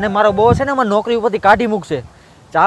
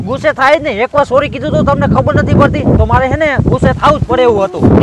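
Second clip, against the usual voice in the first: raised, higher indignant protest; angry; 4 semitones higher than usual. Acted. Boy defends his anger to the girl, raised and heated. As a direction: push back hotly at her. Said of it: "આટલા બધા ગુસ્સે શું કરવાને થાવ છો".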